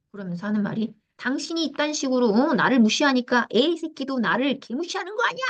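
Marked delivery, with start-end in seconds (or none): 1.2-5.4 a touch of the husband's rage, pitched up; mock angry husband. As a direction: retell his outburst half-acted. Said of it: "남편은 더 화를 낸 거예요". (약간 흉내 낸 화난 남편)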